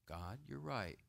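softly repentant; meek repentance. Acted. Cain repenting to God, meek and soft. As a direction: say it humbly, giving in. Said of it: "he should have said".

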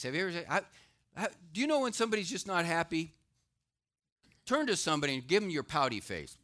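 loud, high preaching from the pulpit; preaching at full force. Acted. Pastor preaching to the congregation, loud and driving. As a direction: proclaim it to the whole room.

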